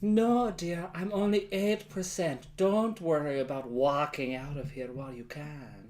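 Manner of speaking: a touch of a creepy, sensual purr; creepy sensual beer. Pretend. Voicing the beer, creepy and sensual. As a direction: coax them like a sly seducer. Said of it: "It, it should be like".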